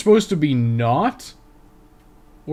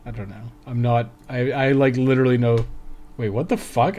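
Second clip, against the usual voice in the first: ordinary talk, nothing marked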